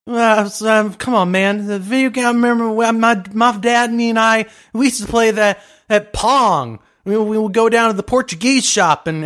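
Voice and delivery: Blue the candidate. Pretend. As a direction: ramble haltingly in character.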